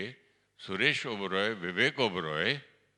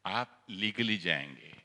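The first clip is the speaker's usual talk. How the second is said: शांत जवाब. Retold or imitated.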